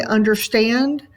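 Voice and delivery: "understand" rising onto "stand"; stress on final syllable. Shown as a demonstration. Teacher demonstrates an anapest, "understand" stressed on "stand". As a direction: let the voice come up on "stand" in "understand". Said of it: "the stand part of it comes up".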